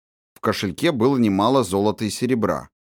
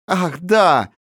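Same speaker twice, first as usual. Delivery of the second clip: laughing; 9 semitones higher, 4 dB louder than usual. A narrator's reading. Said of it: "неожиданно рассмеялась княжна".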